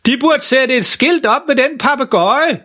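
langsomt, højt oppe i lejet; råb som en halvdøv far uden at blæse igennem; spillet råb for fuld hals. Acted. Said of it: "råber faren for fuld hals". (spillet råb)

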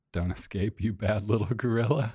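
lightly imitated child scolding an ape; a hint of a scolding kid; kid's voice. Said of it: "Did you hear the kids say".

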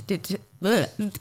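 tongue trips on "de-, de-", then a "bleh"; accidental beatbox stammer. Real, not acted. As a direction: stutter "de-, de-" and give up on "bleh". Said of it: "I just, like, beatboxed".

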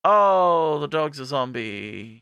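hammed-up disappointment, trailing down; mock dismay. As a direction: let the cheer deflate into slow dismay. Cheer collapses at zombie dog.

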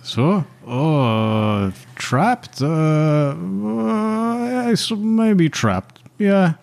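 a high, hesitant ship captain dodging the question; nervous captain voice. Acted. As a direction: stammer it out like a cornered sea captain. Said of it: "Captain Baker answers in broken speech".

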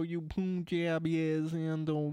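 lightly put-on Southern accent. Riffing to the co-hosts about getting on down, mock Southern accent. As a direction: play at a stereotypical Southern voice. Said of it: "the stupid Southern bullshit".

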